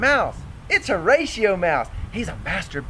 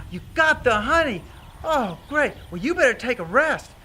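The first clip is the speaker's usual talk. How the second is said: delighted greeting; 2 semitones higher than usual. Acted. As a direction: greet the arrival with glad relief. Barn mice greet the honey.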